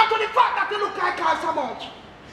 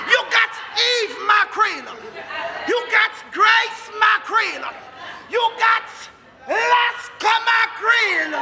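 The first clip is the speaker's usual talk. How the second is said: mock rant; slower than usual. Father ranting about mackerel.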